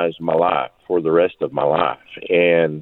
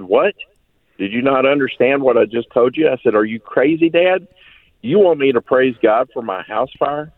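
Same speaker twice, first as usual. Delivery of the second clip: raised, disbelieving retort to his father; mock outrage, voice pitched up in disbelief; incredulous; 6 semitones higher than usual. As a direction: son protesting to his father, higher and incredulous. Retelling disbelief at dad's advice.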